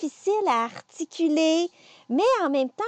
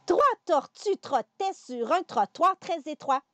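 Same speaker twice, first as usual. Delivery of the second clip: "Trois tortues trottaient sur un trottoir très étroit" a bit faster, flowing; 3 semitones higher than usual. Shown as a demonstration. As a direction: pick up speed through "trottoir très étroit". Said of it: "On y va un petit peu plus vite".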